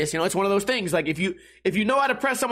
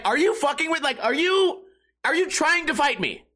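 higher, heated retold challenge; mock-angry, pitched up and pushing; indignant challenge; 7 semitones higher than usual. Retold confrontation in bar.

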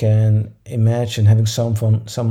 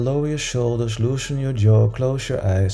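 guided meditation. Acted.

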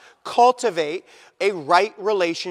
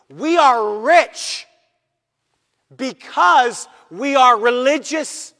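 voicing the proud religious; 4 semitones higher, 8 dB louder, slower than usual. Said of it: "They are thinking".

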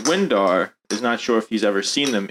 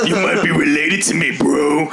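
higher, louder mocking taunt; teasing character voice; 4 semitones higher, 4 dB louder than usual. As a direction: rub it in playfully. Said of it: "And Windar says".

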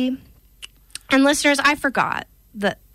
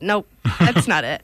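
laughing; 6 semitones lower than usual. Retold or imitated. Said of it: "started to say it and said".

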